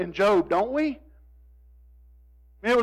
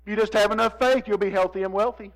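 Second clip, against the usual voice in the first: mocking preacher. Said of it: "prosperity gospel preachers at this point would look at me and say".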